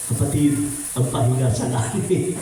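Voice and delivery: lightly voiced stern pastor; a mild playful take on the pastor's firm reply; imitating Pastor Masareto. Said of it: "ginaya ko ang Pastor Masareto". (bahagyang gaya sa mahigpit na pastor)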